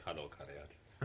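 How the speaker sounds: slow lilting Welsh greeting; Welsh accent. Retold or imitated. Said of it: "as Stan would like to say".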